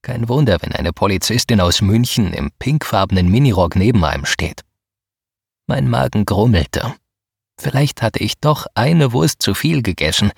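plain reading voice

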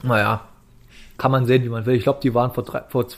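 talking through a mouthful of pear; chewing while talking. Real, not acted. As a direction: chew and speak at once. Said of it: "ich ess grad Bo-, äh, Birne".

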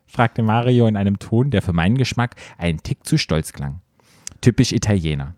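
measured read-aloud voice, lowering as it goes; composed narrator delivery; story narration. A narrator's reading. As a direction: read it out like an audiobook. Reads erotic story aloud.

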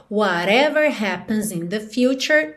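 "happens" clearly marked, both syllables sounded; well articulated. Shown as a demonstration. Teacher modelling the line, explicit and well articulated. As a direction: articulate "whatever happens in the future" carefully. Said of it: "bem explícito, bem marcadinho, bem articulado".

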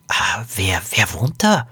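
hushed, hesitant question; leise Frage. A narrator's reading. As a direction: ask it under your breath. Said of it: "fragte Poppy leise". (leise und zögernd gefragt)

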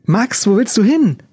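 high panicked plea. Acted. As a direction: beg him, frightened. Panicked Fiona on her knees.

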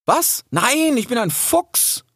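high, indignant cry with a stretched denial. A narrator's reading. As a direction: protest as if insulted. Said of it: "rief Rix entrüstet". (entrüstet gerufen)

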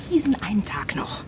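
grudging whisper under the breath. Real, not acted. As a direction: give in with a whisper.

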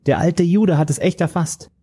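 high, mocking young villain voice; sneering young man. The young villain sneers about the old man, high and mocking. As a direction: lift the voice high and let him jeer.

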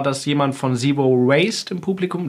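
talking while chewing gum; words round chewing gum. Real, not acted. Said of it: "das kann man mit Kaugummi im Mund gar nicht gut sagen".

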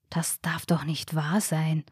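soft, slowed hush of disbelief; quiet stunned murmur; whispered disbelief. A narrator's reading. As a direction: breathe it under your breath in shock. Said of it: "flüsterte Ronny".

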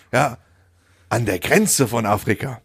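slow, measured face-saving concession; lightly mocked, drawn-out correction; know-it-all backpedalling. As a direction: mimic someone refusing to be wrong, dragging out the words. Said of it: "diese Besserwisser, die nie einsehen".

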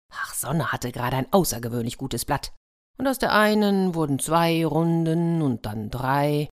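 lively storyteller reading a fairy tale; playful storyteller; story narration. A narrator's reading. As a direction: tell it like a bedtime story to children. Fairy tale read aloud.

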